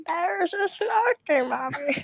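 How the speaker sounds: child's Woody impression. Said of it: "You have to say".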